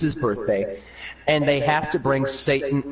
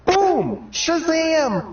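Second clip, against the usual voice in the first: showman reveal; 13 semitones higher, much slower than usual. Acted. Jesus revealing the wine trick, high showman ta-da. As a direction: announce it like a stage trick.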